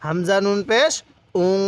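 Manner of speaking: উং held as a long nasal hum; teacher's sustained nasal ending on উং; ghunnah demo. Shown as a demonstration. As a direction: draw উং out through the nose. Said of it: "নুনের সাথে লাগিয়ে দিয়ে গুন্নাহ করব".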